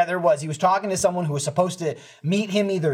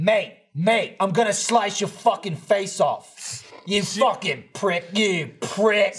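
lightly mimicked phone threat, short of yelling; deliberate mock threat with little rise in volume; imitated loud talker; slower than usual. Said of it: "He was just loud".

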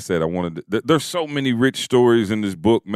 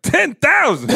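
mock shock; 4 dB louder, slower than usual. Friend mimics wife's shocked reaction.

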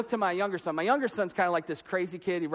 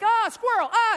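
mock distracted dad; 6 dB louder than usual. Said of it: "You'll be like".

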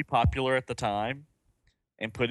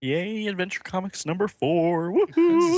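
high, whooping hurrah; playful cheer; 7 semitones higher, 5 dB louder than usual. Pretend. Host cheers the finished comic issue, playful whoop. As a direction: cheer it on, ending in a high woohoo.

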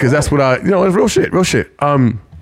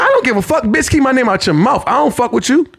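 heated; 5 semitones higher than usual. Retold or imitated. Heated rant at the woman.

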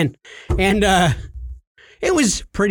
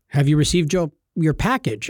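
lightly imitated Jamaican scammer; measured Jamaican caller impression; Jamaican accent; 3 semitones lower than usual. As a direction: ask in a put-on Jamaican accent. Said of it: "He was from Jamaica".

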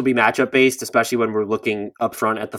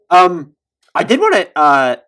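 choking; 7 semitones higher, 8 dB louder, slower than usual. Real, not acted. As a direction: voice strained while choking. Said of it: "as I'm choking".

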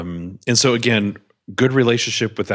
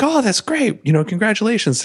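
imitating wife; 13 semitones higher than usual. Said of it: "She's like".

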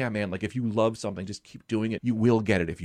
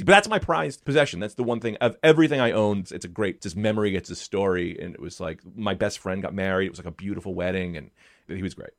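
ordinary delivery

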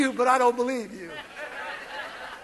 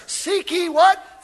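slow, shouted prompt to the crowd; shouted question; 3 semitones higher, slower than usual. Real, not acted. Preacher prompts the congregation, shouting. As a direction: call for the answer. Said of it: "call to congregation".

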